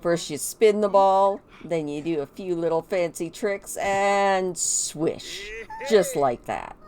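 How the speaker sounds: lightly voiced dad showing off his moves; coaching dad. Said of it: "Saffron's like".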